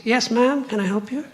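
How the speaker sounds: lightly imitated polite caller; phone caller mistaking him. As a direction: put on a helpful phone manner. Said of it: "I've got a high voice".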